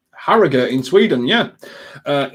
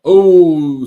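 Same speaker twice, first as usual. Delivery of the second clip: excited; 3 semitones higher, 10 dB louder than usual. Real, not acted. Reacts to near chance.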